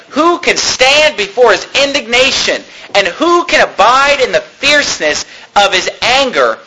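solemn pulpit reading with weighty pauses; emphatic scripture reading. Acted. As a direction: proclaim the verse, stretching the key words. Preacher reads scripture aloud.

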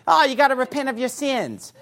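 a failed attempt at a New Zealand voice; mock New Zealand accent. Preacher mimicking a rival and admitting it fails, badly faked New Zealand accent. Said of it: "I'm not even doing it right".

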